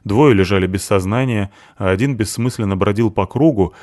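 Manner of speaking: plain reading voice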